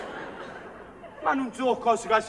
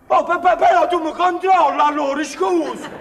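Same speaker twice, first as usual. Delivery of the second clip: higher and louder, stammering in protest; indignant outburst; 5 semitones higher, 7 dB louder than usual. Acted. Man caught out by God, loud indignant protest. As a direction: burst out, offended at being checked on.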